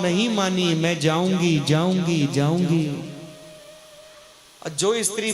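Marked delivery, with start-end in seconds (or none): 0.7-3.1 stubborn insistence. Acted. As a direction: keep insisting like a stubborn child wife. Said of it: "जिद कर बैठी". (पति से ज़िद करती हुई सती, ज़ोर देकर)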